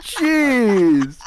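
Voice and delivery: cowboy voice. Pretend. Mock cowboy reaction.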